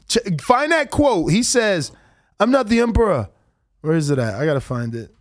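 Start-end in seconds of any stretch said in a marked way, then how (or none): 2.4-3.3 Kambosos impression. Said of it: "I just love your, uh, accent you do".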